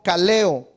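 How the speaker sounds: "kaleo" stressed on the E. Shown as a demonstration. Teacher giving a Greek word, "kaleo" stressed on the E. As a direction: lean on the E in "kaleo". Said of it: "es acento en la E".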